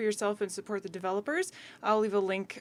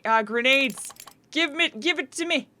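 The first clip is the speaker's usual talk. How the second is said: excited; 5 semitones higher, 5 dB louder than usual. Real, not acted. Finds grenades in skill list.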